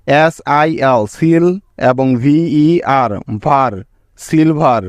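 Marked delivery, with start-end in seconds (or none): 0.1-3.7 syllable by syllable. Shown as a demonstration. Teacher splitting the word for students, slowly, syllable by syllable. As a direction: slowly spell out "এস আই এল সিল এবং ভিই আর ভার", pausing between the syllables সিল and ভার. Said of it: "কি কি syllable পেলাম দেখো".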